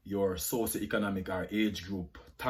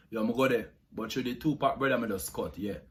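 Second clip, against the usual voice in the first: street Jamaican patois accent; 2 semitones lower than usual. Shown as a demonstration. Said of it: "Jamaican accent tag".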